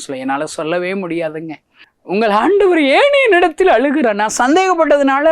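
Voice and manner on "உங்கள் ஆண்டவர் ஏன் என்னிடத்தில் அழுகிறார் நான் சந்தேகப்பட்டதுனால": high, loud anguished preaching cry; preaching at full force. Acted. Preacher crying out to the crowd about Jesus weeping. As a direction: lift it into a ringing pulpit cry. Preaching climax retelling his plea.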